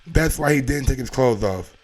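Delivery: ordinary talk, nothing marked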